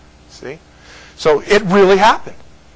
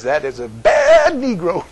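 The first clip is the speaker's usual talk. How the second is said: joking preacher quote; slower than usual. Retold or imitated. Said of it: "he says".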